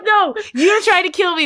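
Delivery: high, loud mock accusation; retold yelling. Patient accusing mom of trying to kill her, mock yell. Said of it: "I'm yelling at the tumor".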